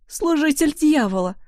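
high, loud cry of accusation; the grieving mother cries out, high and loud; loud outcry. A narrator's reading. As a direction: shout the name of the devil's servant. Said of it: "громко выкрикнула Бьянка".

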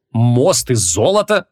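slow, incredulous question; drawn-out astonished query; amazed. Acted. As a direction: stretch it out in disbelief. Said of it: "ещё больше изумился Креол".

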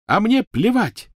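high, drawn-out furious wail; loud, shrieked defiance; screaming. Acted. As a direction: scream it dismissively. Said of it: "завопила Гермиона".

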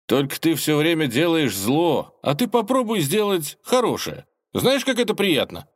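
ingratiating. A narrator's reading. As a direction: coax him gently. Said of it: "сказал вкратчиво".

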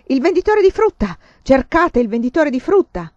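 high, loud alarm call; sentries shouting. A narrator's reading. Sentries calling out the alarm across the courtyard, shouting. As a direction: bellow the order across the yard.

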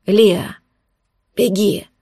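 gurgling shout through blood; choked, wet cry for her to run. A narrator's reading. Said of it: "закричал булькающим голосом Арман". (булькающий крик)

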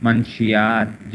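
منشیات drawn out slowly, munashiyat; slow model of منشیات; teacher stretches منشیات for the class; careful pronunciation. Shown as a demonstration. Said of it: "جتنے میں آپ کو لفظ بتا رہا ہوں".

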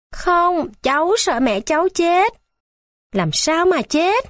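put-on high, crying child's voice; tearful child. A narrator's reading. Crying boy telling the nurses he fears his mother will die. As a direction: answer through sobs.

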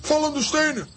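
high, urgent calling out; shouting about falling stones; warning shout. Acted. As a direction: yell a warning. Lambiek warns of falling rocks.

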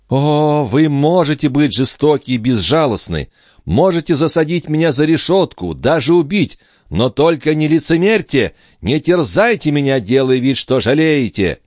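high, loud, impassioned defiance; high, loud, bitter young woman; passionate tirade. Acted. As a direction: hurl accusations at her captor.

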